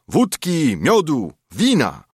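rowdy shout. A narrator's reading. Gentry celebrating in the tavern, rowdy shout. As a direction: bellow it like a tavern chant. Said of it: "Tylko śpiewali, krzycząc".

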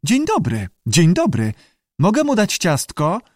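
high squawky creature voice; screeching lizard. A narrator's reading. Lizard parrots greetings and visitors' questions, screeching. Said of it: "zaskrzeczał".

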